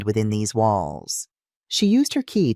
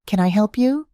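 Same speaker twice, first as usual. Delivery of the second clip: put-on slight Eastern European accent; 10 semitones higher than usual. A narrator's reading. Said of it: "asked with a slight accent".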